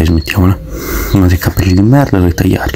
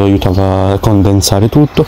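chewing while talking; talking between bites; mouth full of pasta; slower than usual. Real, not acted. Seen 1: Forkful of pasta enters mouth at 0.1; chewing with full cheeks follows.

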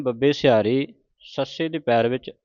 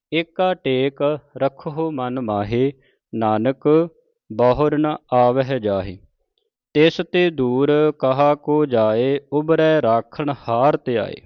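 slow, measured Gurbani reading; measured devotional recitation; scripture recitation; slower than usual. Acted. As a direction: recite each phrase deliberately, drawing out the vowels.

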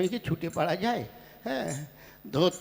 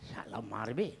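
much softer, lower muttered plotting; conspiratorial hush; 6 semitones lower, 8 dB quieter than usual. Acted. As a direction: whisper the plan to your ally. Plotting aside to other old man. (ফিসফিস করে ষড়যন্ত্র)

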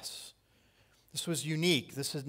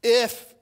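high, loud, drawn-out "If"; stressed if; 9 semitones higher, 12 dB louder than usual. Acted. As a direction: hit "If" hard and high before a pause. Preacher stressing the word if.

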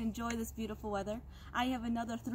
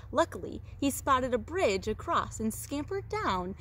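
animated read-aloud with drawn-out emphasis; storyteller lingering on key words; story narration; slower than usual. A narrator's reading. Teacher reads goat tale to second graders, animated storytelling. Reads a picture book to children.

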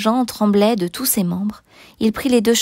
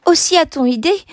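high, indignant complaint to oneself; indignant grumbling; 7 semitones higher than usual. A narrator's reading. Housekeeper grumbles alone about the guest, indignant. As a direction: complain to yourself, pitched up. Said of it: "disait madame Magloire toute seule".

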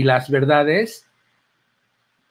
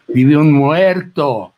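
slow and louder, drawing out each word; a child scaring a friend, spooky and slow; spooky ghost-story warning; 6 dB louder, much slower than usual. Retold or imitated. Nacho warning his friend about the haunted house, slow ominous emphasis. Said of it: "Nacho Mostacho me decía".

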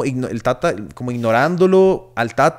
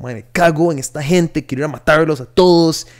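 a touch of voiced anger, not raised much; mild retold fury; 3 semitones higher than usual. Telling the cohost how the film made him furious, mildly angry. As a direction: grumble it like a half-mocking vent. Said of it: "Yo era como".

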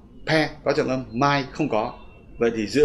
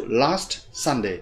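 slowed rhythm demo; much slower than usual. Shown as a demonstration. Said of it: "chúng ta phải đọc last Sunday".

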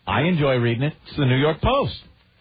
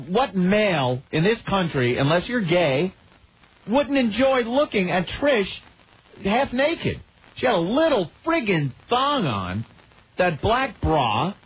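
higher-pitched, incredulous enthusiasm; worked-up rant; 4 semitones higher than usual. Real, not acted. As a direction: rant excitedly, pitch jumping up on key phrases. Indignant rant praising the Trish segment.

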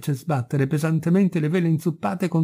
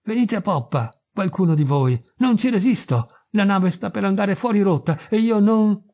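plaintive cry for help; 6 semitones higher than usual. Acted. Helmsman calling crew in dark, plaintive plea. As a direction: beg for help as your strength fails. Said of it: "pietosamente lamentosa".

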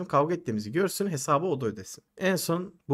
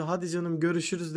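lightly voiced young woman, higher pitch; imitated girlfriend; 4 semitones higher, 3 dB quieter than usual. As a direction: quote the girlfriend in a raised voice. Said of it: "Kız geldi". (kız arkadaşı taklit eden ince ses)

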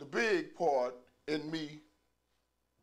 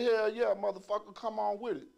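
higher, louder fake-brave yell; bluffing shout; 6 semitones higher, 4 dB louder than usual. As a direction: act fearless though scared. Accepting the fight, bluffing.

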